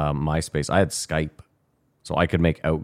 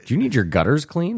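high, chirpy cold-call pitch; rushed scripted telemarketer; 10 semitones higher than usual. Pretend. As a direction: sell it like a phone salesman. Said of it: "sounds like a telemarketer".

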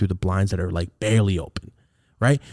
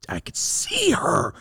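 whisper; much slower than usual. Retold or imitated.

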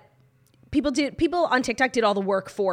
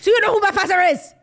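high, loud outburst in a mock Anna Delvey accent; hammed-up Anna Delvey-style accented tantrum; 10 semitones higher, 8 dB louder than usual. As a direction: shout it indignantly with a put-on European accent. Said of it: "He said it, like, on a Delvey".

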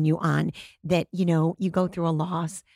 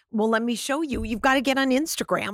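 eager coaching; 7 semitones higher, 4 dB louder than usual. Retold or imitated. Coaching retired husband on social media.

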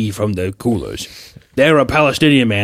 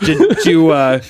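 angry boss; 4 semitones higher than usual. Pretend. Stan Lee bossing Kirby.

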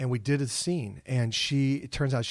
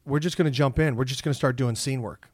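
teacher voice; 4 dB louder than usual. Retold or imitated. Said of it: "And he goes".

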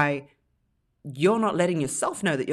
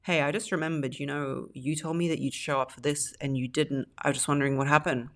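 calm direct tone. Retold or imitated. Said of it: "you'd say".

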